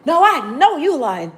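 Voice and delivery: lightly imitated flamboyant delivery; imitating a gay man. Retelling a gay man's line, mild flamboyant imitation. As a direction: echo how the man said it, a hint of flair. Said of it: "the way he said it was".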